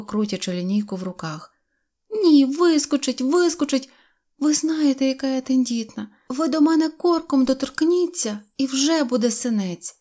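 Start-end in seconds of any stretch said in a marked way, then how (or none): 2.1-10.0 high-pitched fretful insistence; upset little girl. A narrator's reading. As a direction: insist in a high, delicate girl's voice. (примхлива ображена дівчинка)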